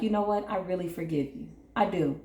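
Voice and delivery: mean every word of it; sincere forgiveness. Shown as a demonstration. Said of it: "the way I said those two things".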